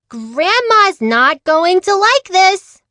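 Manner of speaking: high, slow worried little sister. Acted. Sister warns Amelia, high and worried. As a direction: fret that Grandma will be upset.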